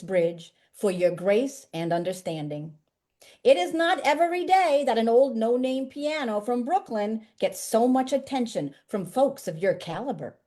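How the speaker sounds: poem read in a hammed-up, rough Brooklyn accent; a deliberately bad Brooklyn accent, voicing the piano; reading the piano's letter in a mock Brooklyn accent. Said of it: "try a really bad Brooklyn accent".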